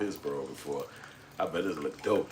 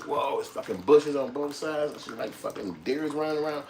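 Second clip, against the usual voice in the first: high-pitched wide-eyed wonder; acted amazement; 7 semitones higher than usual. City visitor standing among bushes and deer, amazed. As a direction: marvel in a raised voice.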